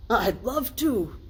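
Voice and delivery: joyful, drawn-out acceptance; delightedly. A narrator's reading. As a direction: savour the yes. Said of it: "Scrooge said delightedly".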